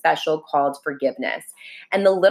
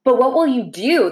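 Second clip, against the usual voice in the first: a touch of nervous worry, lightly higher; a little nervously; 6 semitones higher, 4 dB louder than usual. Acted. Little soul asks friend, mildly nervous. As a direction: ask with mild unease. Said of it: "just a little nervously".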